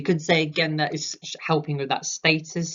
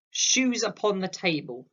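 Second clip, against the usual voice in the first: mild, higher mock shriek; high-pitched shriek; 5 semitones higher than usual. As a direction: quote a shriek without raising the volume. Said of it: "shrieks in a high-pitched voice".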